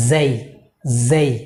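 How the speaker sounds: জেই drawn into a gliding ey vowel; correct pronunciation. Shown as a demonstration. Teacher modelling the correct letter name, long gliding vowel. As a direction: stretch জেই, gliding toward i. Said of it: "the correct pronunciation is".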